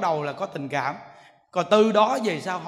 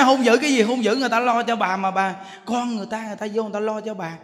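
scolding. Retold or imitated. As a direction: scold the old woman for her temper. Monk scolds the old woman. (giọng trách mắng gay gắt)

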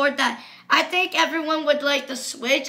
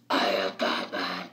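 very deep, softer Batman growl through a changer; dark voice; 5 dB quieter than usual. Shown as a demonstration. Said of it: "In the dark voice".

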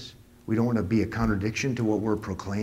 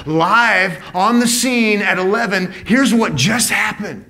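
full-force preaching; 8 semitones higher, 7 dB louder than usual. Real, not acted. Pastor insisting the gospel is proclaimed, not lived, preaching hard. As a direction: drive it home to the congregation.

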